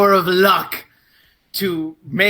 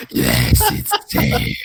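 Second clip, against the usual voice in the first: deep, whispered, eerie reply; creepy low voice; much slower than usual. Acted. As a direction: answer low and breathy like a lurking creature. Character answers in creepy voice.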